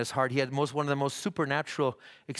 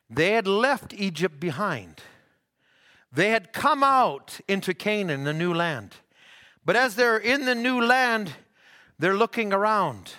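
rising preaching; 6 semitones higher, 4 dB louder than usual. Acted. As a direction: build the Bible story with preacher's emphasis. Preaches the Israel story.

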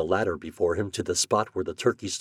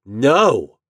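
higher, loud, firm no; sturdy refusal; 5 semitones higher, 9 dB louder than usual. A narrator's reading. Boy refusing the showman's offer, sturdy. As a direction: refuse without budging. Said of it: "said Homer sturdily".

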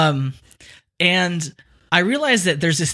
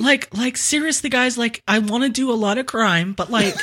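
high, pleading slacker mobster; like-saying crime lord; 6 semitones higher than usual. Acted. Would-be crime boss pleading with guys, un-tough high voice. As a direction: plead high in plain American, stumbling over like. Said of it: "if I keep saying like".

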